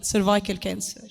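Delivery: ordinary talk, nothing marked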